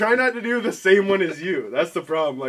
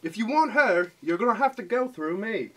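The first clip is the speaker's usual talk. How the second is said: higher, lightly done British threat; British accent; 5 semitones higher than usual. Pretend. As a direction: say it as a mild British tough guy. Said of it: "Try to do British".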